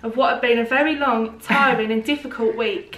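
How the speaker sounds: put-on Essex accent. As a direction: read it like someone from Essex. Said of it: "Is that, like, Essex?".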